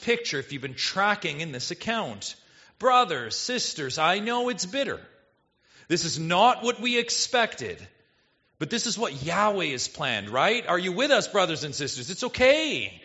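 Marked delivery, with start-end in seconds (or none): 2.8-12.1 higher, louder rallying call to the people; Israelite encouraging the crowd. Pretend. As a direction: play a hopeful Israelite urging the brothers and sisters. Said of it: "an Israelite speaking up".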